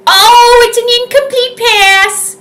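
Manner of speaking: high, loud startled "oh"; a sudden jump of surprise at the play; surprised call. Real, not acted. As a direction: caught off guard, calling it out. Reacting to the play live.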